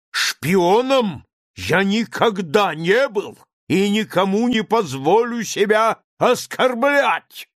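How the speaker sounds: high, loud, slow shout, stress on оскорблять; quavering shout. A narrator's reading. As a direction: shout with outraged dignity, hammer оскорблять. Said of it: "крикнул он дребезжащим голосом". (дребезжащий крик с ударением на «оскорблять»)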